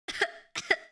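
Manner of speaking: dry cough. Acted. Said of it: "spice stuck in my throat".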